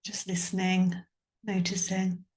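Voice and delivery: calm, measured meditation voice with long pauses; guided meditation. Acted. Yoga teacher guiding listeners to tune into sounds and body, guided meditation. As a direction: guide a listener gently, leaving space between phrases.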